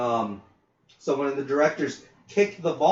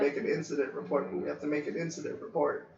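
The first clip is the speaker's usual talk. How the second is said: quick quiet mutter; fast grumble; 9 dB quieter, faster than usual. Retold or imitated. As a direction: complain under your breath, fast. Grumbling about paperwork.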